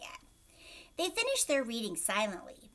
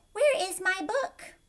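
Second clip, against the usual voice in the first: reading without punctuation; 9 semitones higher, 6 dB louder than usual. A narrator's reading. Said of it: "it would be nice to know where the punctuation marks are".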